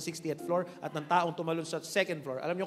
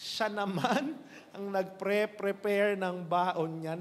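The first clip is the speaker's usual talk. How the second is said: slow punchline repeat; much slower than usual. Shown as a demonstration. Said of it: "repeats punchline slowly".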